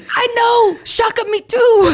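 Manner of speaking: grandmother's line, cracking up as she says it; giggling high old-lady impression; laughing grandmother voice. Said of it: "She goes".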